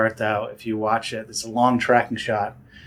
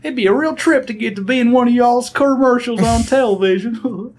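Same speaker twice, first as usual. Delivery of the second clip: hammed-up Southern redneck accent; 13 semitones higher, 6 dB louder than usual. Improvising a redneck audition tape in a thick Southern accent. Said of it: "really played up the accent".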